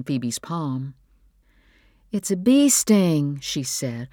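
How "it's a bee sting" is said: slow, higher and louder concern; concerned mother. A narrator's reading. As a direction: slowly explain it to a hurt child. Mother comforts crying, stung child.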